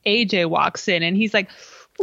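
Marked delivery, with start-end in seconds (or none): 2.0-2.0 high mock ooh; a hammed-up, high-pitched ooh; imitating AJ. AJ voiced with a sung ooh.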